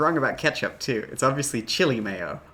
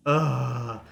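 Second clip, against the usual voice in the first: exasperated groan. Real, not acted. Groans at the cult title.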